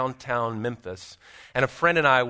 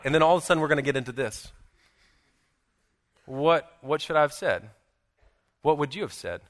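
ordinary talk

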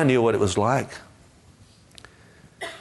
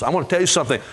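normal talking voice

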